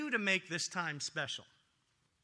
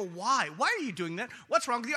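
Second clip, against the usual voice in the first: mock road rage; 3 semitones higher, 6 dB louder than usual. Pastor acts out road rage.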